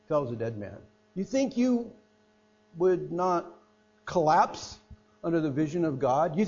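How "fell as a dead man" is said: hushed echo. Acted.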